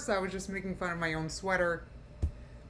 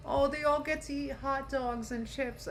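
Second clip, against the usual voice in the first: higher, pouty mock whine; 5 semitones higher, 3 dB quieter than usual. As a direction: mimic her sulking over snacks. Mocking the woman again.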